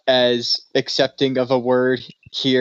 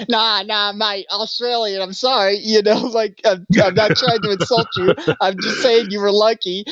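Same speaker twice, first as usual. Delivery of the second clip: put-on high, placating Australian accent; hammed-up Australian, pleading innocence; cranked-up Australian accent; 8 semitones higher than usual. Australian friend apologising to big gambler, exaggerated Australian accent. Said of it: "cranked up the accent".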